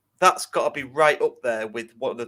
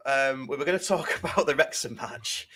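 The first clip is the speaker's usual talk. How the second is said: nervous laugh. Real, not acted. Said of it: "That's, that's a nervous laugh".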